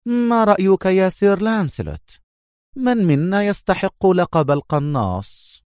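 confident taunt. A narrator's reading. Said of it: "ابتسامة كبيرة واثقة مستفزة".

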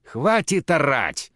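slow, irritated through the teeth; Natasha, head aching, cutting Tatiana off; irritated hiss. Acted. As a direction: snap at her to shut up. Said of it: "раздражённо процедила Наташа".

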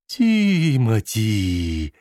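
a slow, drawn-out breathy hiss of the name; creepy hissed call, very slow. Acted. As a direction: hiss «Тимоти» from behind a partition. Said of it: "прошипел кто-то с придыханием".

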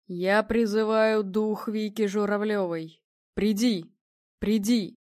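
медленно, громко, повелительно взывает к духу; медиум призывает дух; резкий громкий призыв. A narrator's reading. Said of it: "выкрикнул он резко и так громко". (резкий выкрик)

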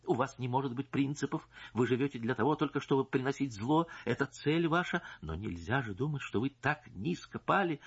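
a hint of a firm, pressing wife; decisive tone. Wife stating her demand, lightly voiced firm tone. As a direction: lay it out resolutely. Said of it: "решительным тоном".

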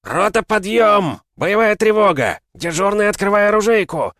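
bellowing army captain alarm call; russian drill sergeant. Acted. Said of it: "заорал капитан Буженин".

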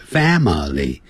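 "family" in three distinct syllables, fa-ma-ly. Shown as a demonstration. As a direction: sound out all three beats of "family". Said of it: "是三个音节". (把 family 清楚念成三个音节)

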